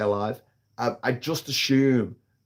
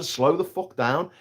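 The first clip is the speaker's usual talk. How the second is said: mock demand; 2 semitones higher, slower than usual. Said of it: "I'm saying to the driver".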